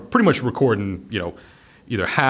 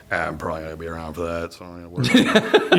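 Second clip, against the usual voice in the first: mock worrier; 5 semitones lower, much faster than usual. Mocking a worrier's voice.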